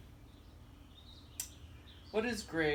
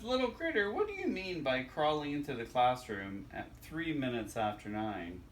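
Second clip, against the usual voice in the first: teacher voice. Acted. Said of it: "Teacher says".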